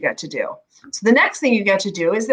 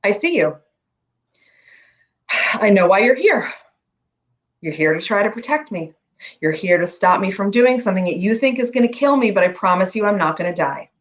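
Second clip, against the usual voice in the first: talking to fear; 5 semitones lower than usual. Shown as a demonstration. Coach shows client how to talk to fear, calm acknowledgement. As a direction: acknowledge the fear kindly, with pauses between phrases. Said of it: "it sounds like this".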